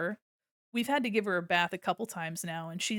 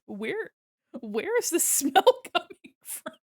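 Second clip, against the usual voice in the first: baffled disgust; 8 semitones higher, 4 dB louder than usual. Retold or imitated. Sniffing the smelly cat.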